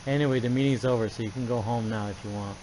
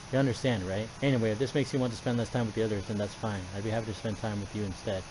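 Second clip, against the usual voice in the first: put-on gentle girl voice. Voices Monika softly.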